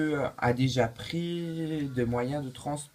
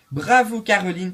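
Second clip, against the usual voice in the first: game show cheer; 4 semitones higher, 6 dB louder than usual. Acted. Host congratulates winning contestant.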